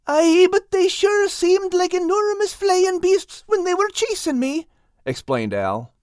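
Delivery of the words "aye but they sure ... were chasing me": high, eager little cat voice with a country dialect. Acted. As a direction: tell the tale wide-eyed as the big cat Al. Al explains himself.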